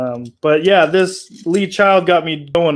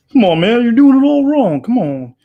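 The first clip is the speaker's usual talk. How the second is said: louder and higher, scolding; exasperated complaint; 6 semitones higher, 6 dB louder than usual. Acted. Game character scolding the player's polish job, loud and exasperated. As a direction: yell at him for messing it up.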